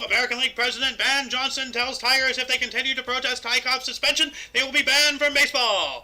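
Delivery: a hint of a vintage radio announcer; old-time radio announcer. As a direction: lightly read like an old newsreel. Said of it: "I wanted to sound like an old-time radio guy".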